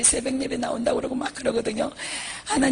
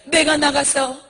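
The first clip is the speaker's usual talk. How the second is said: higher, crying plea with gasping breaths; tearful begging; 4 semitones higher, 4 dB louder than usual. Retold or imitated. Monk promising to preach if spared, wailing for mercy. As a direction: plead desperately through sobs.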